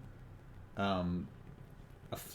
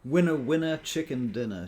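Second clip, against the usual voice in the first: cheery quote; 4 semitones higher, 7 dB louder than usual. Retold or imitated. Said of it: "She says".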